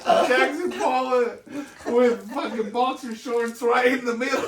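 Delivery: words broken up by real laughter; laughing too hard to get the description out straight; laughing while telling. Real, not acted. Describing the wall to his cohosts, laughing through it.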